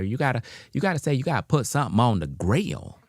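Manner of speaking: a hint of a Southern lady setting him straight; Southern cashier. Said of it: "She said".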